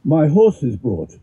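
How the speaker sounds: measured, declaiming verse reading; poem reading. Acted. Reads Pushkin poem aloud.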